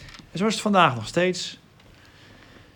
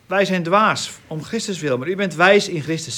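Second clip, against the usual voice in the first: raised, loud, pointed sarcasm; sarcastic; 3 semitones higher, 5 dB louder than usual. Retold or imitated. Bible teacher quoting Paul's irony to the group, sarcastic. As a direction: quote it with biting irony, pitched up. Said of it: "Zie, dat is sarcasme".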